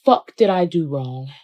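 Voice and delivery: frustrated outcry. Retold or imitated. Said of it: "she's like".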